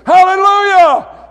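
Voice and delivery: high, loud burst of praise; shouted hallelujah. Real, not acted. Preacher bursting out to the congregation, high loud shout. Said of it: "I almost want to shout it".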